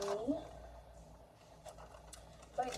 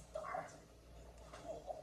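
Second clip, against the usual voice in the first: high squealing laugh; 6 dB louder, much slower than usual. Real, not acted. Coaxing dog, laughing.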